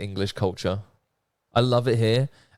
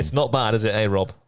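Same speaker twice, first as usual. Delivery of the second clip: English Midlands accent attempt; imitating Rob's accent. Testing the guest's accent on him, Midlands accent imitation. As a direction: have a go at his Midlands accent. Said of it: "Is that close to your accent?".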